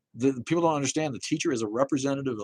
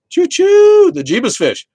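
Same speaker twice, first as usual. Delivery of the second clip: very high, loud choo-choo whoop; hammed-up train holler; playful train call; 16 dB louder, slower than usual. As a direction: whoop like a train whistle, then call out loudly. Calls out a train noise, jokingly.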